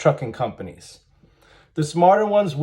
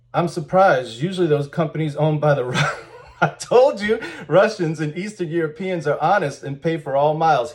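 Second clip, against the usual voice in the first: sarcastic. Acted. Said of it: "He's being very sarcastic".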